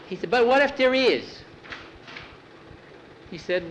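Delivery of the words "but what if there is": put-on high, worried child's voice; a frightened kid whispering in bed; scared little boy.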